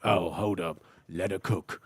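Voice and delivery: low British hard-man voice; gruff, understated mock-British; Jason Statham. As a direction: say it deep and soft like a London tough guy. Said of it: "like, Jason Statham saying".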